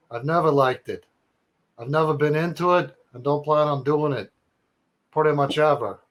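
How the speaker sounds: a hint of New York bro reading; New York accent. Reading Nick's email in a mild New York accent. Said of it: "wanna do a New York accent".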